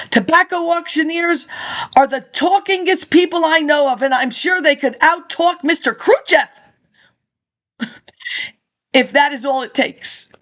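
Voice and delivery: reading out a speech, steady and measured; formal speech read. Acted. Reading an old lecture to listeners, formal speech. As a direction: deliver it like a campaign address.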